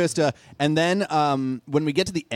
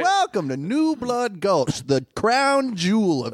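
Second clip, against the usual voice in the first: put-on old-timey narrator; 3 semitones higher than usual. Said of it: "old-timey narrator over the top".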